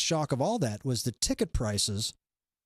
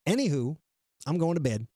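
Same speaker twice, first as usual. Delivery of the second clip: lightly imitated cute cartoon voice; a hint of cutesy cartoon. Host recapping crypto girl's sign-off, light cute cartoon voice. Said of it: "in her cute little cartoon voice".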